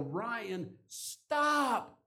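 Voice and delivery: put-on sharp, high, loud shout to halt a running child; urgent yell. Father yelling to his toddler son heading for the road, sharp alarmed shout. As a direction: call out in alarm, high and loud, to stop him. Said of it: "and I yell".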